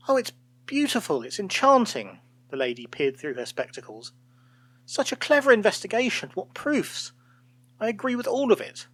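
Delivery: high, overdone false praise; fake gushing. A narrator's reading. Old colleague flattering the swindler, high and gushing. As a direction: gush to hide your confusion.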